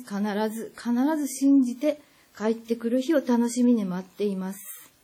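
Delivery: real, emphatic plea of encouragement; heartfelt encouragement. Real, not acted. Urging abducted friend to hold on.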